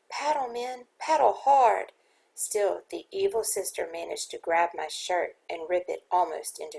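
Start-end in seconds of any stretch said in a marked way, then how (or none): 0.1-1.9 higher, loud urgent command to paddle; shouting. Retold or imitated. Steersman shouting at his men to escape, loud and urgent. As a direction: urge the men on as the ghost charges. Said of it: "I shouted to my men".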